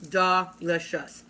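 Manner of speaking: Delicious drawn out slowly and falling; savoring. Shown as a demonstration. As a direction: stretch out Delicious, relishing it.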